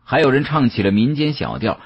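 usual speaking voice

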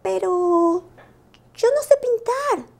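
voz aguda e insegura de lobito; voz de Lupo. Acted. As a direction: Lupo dudando, agudo y tímido. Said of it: "dijo Lupo". (lobito inseguro, voz alta)

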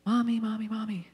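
lightly voiced child calling Mommy; kids calling mommy. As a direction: call for mom like a needy child. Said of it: "ask me for help".

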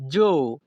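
জো said alone as one clear syllable; pronunciation demo. Shown as a demonstration. Teacher shows learners how to pronounce it, demonstrating জো clearly. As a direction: sound out জো as the Italian ending. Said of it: "এর উচ্চারণ হবে".

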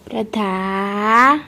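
low, soft, stretched name call; drawn-out calling. Real, not acted. Calling to little child. (લંબાવીને ધીમેથી બોલાવવું)

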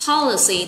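POL-i-cy, weight on POL; first-syllable stress. Shown as a demonstration. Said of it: "từ nhấn âm số một".

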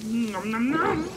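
playful "nom nom" eating noise, rising high; pretend munching. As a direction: mimic gobbling food. Eating chicken in the game.

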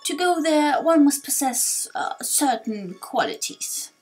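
elder solemnly explaining a legend; weighty, halting words of an old teacher; lightly voiced old sage. Torkoal explains.

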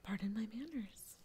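low whispered character voice; Rilla character voice. Acted. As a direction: drop low and introduce yourself in character. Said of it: "Let me introduce myself. Name's Rilla".

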